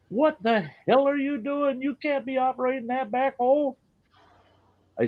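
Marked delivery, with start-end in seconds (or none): 0.1-3.7 higher mock official scolding the boss. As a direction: draw it out like an outraged official. Mocking commission members scolding.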